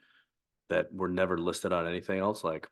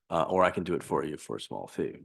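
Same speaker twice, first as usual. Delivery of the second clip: sarcastic. Real, not acted. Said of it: "that's me being sarcastic".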